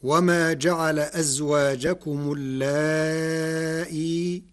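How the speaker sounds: slow recitation, long drawn-out aa in اللائي; اللائي with a long held vowel and softened hamza, no final ya; Warsh reading. Shown as a demonstration. Lecturer reciting the verse to explain Warsh, slow Warsh recitation. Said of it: "بتسهيل الهمزة بين بين".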